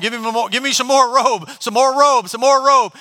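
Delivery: shouting directions down through the roof; calling down. Acted. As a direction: call down to the men lowering the mat.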